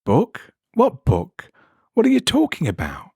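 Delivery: a confused man caught off guard; baffled Jeff. Acted.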